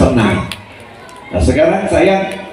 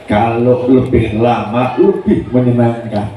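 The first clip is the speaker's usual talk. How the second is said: pleased; 6 semitones lower than usual. Retold or imitated.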